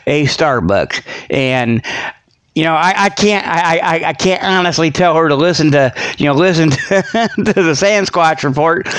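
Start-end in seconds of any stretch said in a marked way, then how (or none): 6.2-8.9 words through a laugh. Real, not acted. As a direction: laugh while saying it. Laughing while talking.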